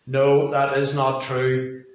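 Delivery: slow flat robot voice. Shown as a demonstration. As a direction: deliver it like a robot. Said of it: "I'm doing it in a robot voice".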